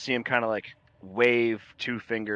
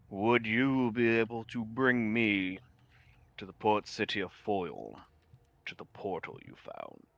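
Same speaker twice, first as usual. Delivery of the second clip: mind vampire voice; 5 dB quieter than usual. Acted. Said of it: "and he goes".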